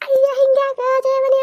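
slow, high mimicry of him; mocking echo. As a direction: throw his plea back, drawn out. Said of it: "ಅಂತಂದ್ರೆ". (ಅಣಕಿಸುವ ಎಳೆದ ಧ್ವನಿ)

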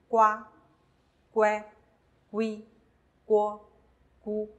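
each read as one whole syllable: 瓜、乖、龟、锅、咕; blended syllables. Shown as a demonstration. Teacher modelling the gu combinations, 瓜、乖、龟、锅、咕 blended whole. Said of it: "直接拼读成".

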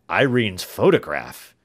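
loud shocked question; astonished cry. Acted. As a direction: cry it out in disbelief. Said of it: "he cried".

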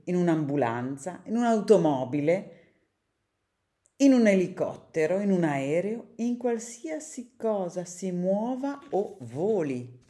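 lively read-aloud for children, characters voiced; storybook reading. A narrator's reading. Reader reading a picture book to children, lively storytelling. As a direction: read the tale to kids with bright expression.

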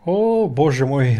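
slow, loud startled gasp of words after a sneeze; blurted out, stretched slow, still reeling from the sneeze; startled oh my god. Real, not acted. Player reeling from his own loud sneeze, slow startled exclamation.

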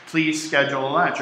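politely, softly; polite request. Shown as a demonstration. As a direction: ask nicely, like to an assistant. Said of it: "You'd say".

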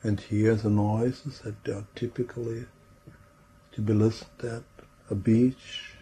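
unhurried meditation voice with long pauses; guided imagery. Real, not acted. Trainer guiding a group into relaxing, in a calm imagery voice. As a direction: lead listeners gently through the scene, leaving space between phrases.

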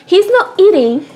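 He's NOT eating, not hit high and loud; not stressed, annoyed owner. Real, not acted. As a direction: lean hard on not in exasperation. Owner scolding picky pet.

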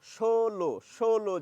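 ষোলো said as sholo with a sh; pronunciation demo. Shown as a demonstration. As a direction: say ষোলো with a sh sound, twice. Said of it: "সেইভাবে উচ্চারণ করছি".

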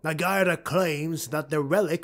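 scheming dark elf lord. Acted. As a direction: lay out the plan with cold resolve. Malice replies.

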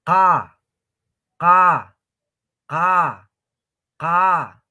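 "Ka" as qa, loud and open-mouthed; plain Quechua Q. Shown as a demonstration. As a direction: sound "Ka" far back with mouth wide open. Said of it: "A ver, una vez más". (qa simple, boca abierta)

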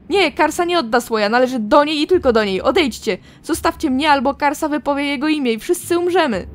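loud, tormented pleading that breaks into a yell; a woman driven mad by a voice in her head; frantic madwoman. Acted. Karsa begs the voice to stop, frantic and loud.

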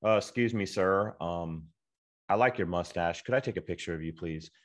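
stiff timid ask. Shown as a demonstration. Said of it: "don't walk up all stiff and".

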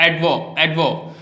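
"एडवो" with the D sounded before V; D pronounced. Shown as a demonstration. Teacher says D must be spoken here, "एडवो" with audible D. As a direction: keep the D in "एडवो". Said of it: "इसको यहाँ बोलना पड़ेगा आपको".

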